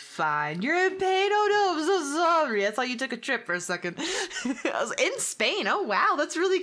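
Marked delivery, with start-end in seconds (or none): 0.6-2.7 high sympathetic coo; concerned sympathy. Real, not acted. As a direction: react with high, gushing concern for a friend. Sympathy to a chat viewer.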